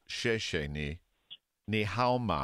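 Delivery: "Xie xie ni" said as shay shay nee, rising at the end; Mandarin pronunciation. Shown as a demonstration. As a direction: say "Xie xie ni" then "Ni hao ma" as a careful language demo. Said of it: "In Mandarin, thank you is".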